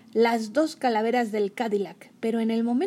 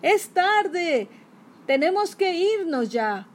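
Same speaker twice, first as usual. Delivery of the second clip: higher, louder urgent villain; hurried magician; 7 semitones higher, 4 dB louder, slower than usual. Acted. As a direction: rush them out the door. Magician urges to leave.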